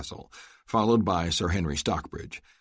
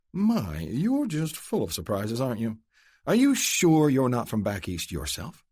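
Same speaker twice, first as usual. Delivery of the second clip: higher, playful lady's voice; Adele, teasing; 7 semitones higher than usual. Acted. Adele teases Luke about being from back east, playful. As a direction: tease him sweetly.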